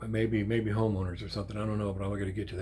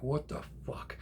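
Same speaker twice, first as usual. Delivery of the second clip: out of breath; 4 semitones higher, 6 dB quieter than usual. Retold or imitated. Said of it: "completely out of breath".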